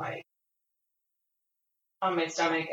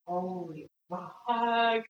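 awestruck; 3 dB quieter than usual. Real, not acted. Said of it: "This is like nothing I've experienced".

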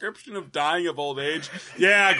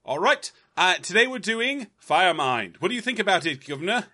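mock British. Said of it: "British version".

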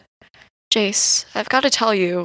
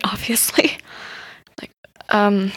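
whispered aside. Acted. Aside while attention split.

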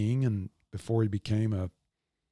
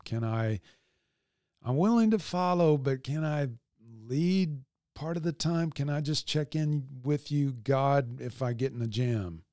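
lightly voiced hedging believer, pitched up midway; bargaining would-be follower; 2 semitones higher than usual. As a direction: plead a little, haggling for an exception. Voices a hesitant bargaining listener.

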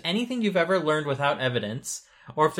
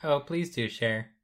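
flat robotic monotone; 5 dB quieter than usual. Pretend. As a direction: answer like a stiff toy robot. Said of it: "Why you talk like that?".

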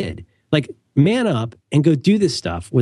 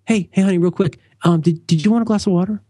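hesitant husband; 6 semitones higher than usual. Retold or imitated. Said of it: "You know what you don't need to do?".

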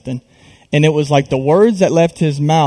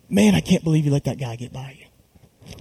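softer retold remark, no malice; matter-of-fact dad; 6 dB quieter than usual. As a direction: quote dad's offhand comment quietly. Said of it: "he didn't say it in disappointment, he just said".

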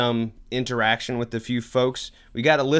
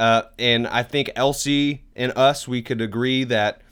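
loosely faked Australian accent, chummy slang delivery; hammed-up, badly done Australian; awful Australian accent; 3 dB louder than usual. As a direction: put on a bad Aussie accent. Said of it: "that's an awful Australian accent".

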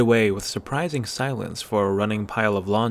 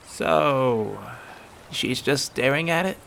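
put-on lightly raised young voices trading lines; character voices; 4 semitones higher than usual. Young friends talking, lightly voiced. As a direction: kids whispering plans to each other.

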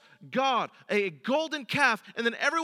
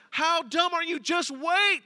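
higher, punchy acted scolding; exasperated, raised-pitch telling-off; mock exasperation; 5 semitones higher, 4 dB louder than usual. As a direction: scold them as a know-it-all onlooker.

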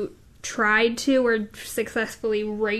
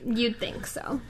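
whisper; 8 dB quieter, slower than usual. Real, not acted. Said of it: "S1 mutters aside".

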